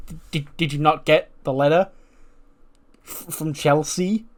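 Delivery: stammered, halting question; falter, stretching out the last words; awkward hesitation. Acted. Newcomer asks confused group about a letter, awkward and hesitant.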